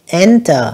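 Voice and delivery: Enter with the first syllable stressed. Shown as a demonstration. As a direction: lean on the opening syllable of Enter. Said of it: "nhấn âm đầu".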